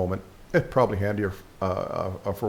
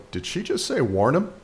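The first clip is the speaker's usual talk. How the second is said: startled bystander; 4 semitones higher than usual. Acted. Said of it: "the person who hears it is gonna go".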